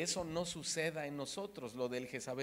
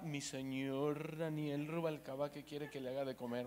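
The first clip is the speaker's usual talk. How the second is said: submissive wife; 2 semitones lower, 5 dB quieter than usual. Retold or imitated. Imagined wife asking her husband what to cook, lightly sweet. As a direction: lightly play the adoring obliging wife. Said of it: "quieren que sus esposas así les hablen".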